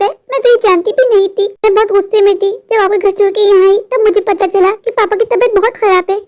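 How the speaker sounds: a lightly voiced young wife, anxious and upset; worried young wife. Wife telling her husband about her father, lightly upset. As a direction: voice a daughter fretting over her sick father.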